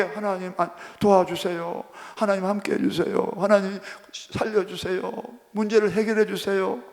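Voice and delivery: soft, low, restrained plea; quiet prayer. Acted. Believer politely asking God for help, quiet prayer. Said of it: "여러분 조용하게".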